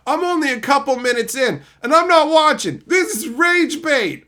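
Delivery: high, loud snooty commenter voice; mocking commenter. Streamer mimicking a commenter who called his video rage bait, snooty mock voice. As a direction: sneer like a dismissive viewer. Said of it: "that comment was left by an idiot who's like".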